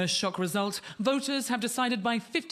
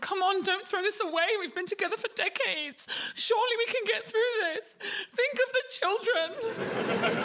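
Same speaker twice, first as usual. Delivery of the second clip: much higher, mock tearful begging; pleading ex; 12 semitones higher than usual. Remainers begging Europe like a dumped partner, high mock sobbing. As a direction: whine like a dumped lover clinging on. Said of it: "While the Remainers".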